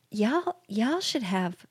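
slow, drawn-out bad Southern accent; terrible Southern accent. Mother-in-law advising the couple on hosting, terrible Southern accent. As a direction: badly imitate a Southern hostess. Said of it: "this is a terrible accent I'm doing".

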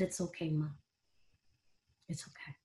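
hushed, fading reassurance; quiet comfort to a dying mother; soothing. Retold or imitated. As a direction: soften it down to almost nothing, comforting her.

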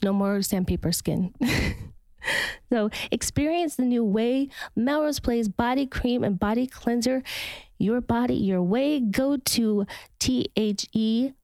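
measured, upbeat sponsor read; podcast ad read. Acted. Host recommending body cream to listeners, podcast ad read. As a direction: sell it like a personal recommendation.

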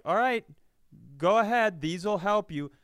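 high, loud folksy doctor handing over pills; breezy country doctor. Retold or imitated. Doctor handing over unlabeled supplements, high and loud. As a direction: toss it off like a carefree quack.

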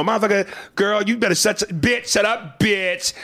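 high, hammed-up diva; sassy trans character. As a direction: bicker like divas in the cab. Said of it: "we, you know".

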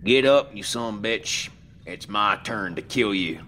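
rising voice. Acted. Earl taunts the dead body, his voice rising. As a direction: shout the first words up high. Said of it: "Earl's voice rose".

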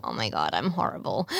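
mock self-pity. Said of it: "I'll just be like".

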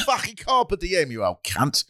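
high, drawn-out mock Cockney jeer, dropping at the end; hammed-up Cockney abuse; Cockney accent. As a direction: hurl the Latin like a Cockney insult. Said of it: "imagine that in a Cockney accent".

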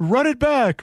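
Vic Rauter impression. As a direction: call it like the Count on air. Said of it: "Just count for us".

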